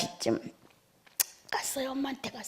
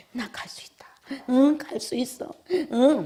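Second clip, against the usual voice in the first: higher, mildly sobbed mock-crying replies; imitated tearful assent; 7 semitones higher, slower than usual. Mother assured of heaven as retold by preacher, imitated tearful yes. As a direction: act out agreeing through tears, lightly. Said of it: "막 이러면서 막 우셨어요".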